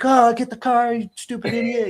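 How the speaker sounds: high, loud mock yell at the marshals; mock angry shout. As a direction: play the angry racer shouting at the marshals, half joking. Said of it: "yelling at the marshals".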